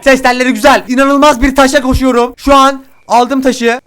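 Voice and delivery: loud, high, showy boast; hammed-up proud voice. Streamer boasts about his voice, loud and showy. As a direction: crow about it like a showman.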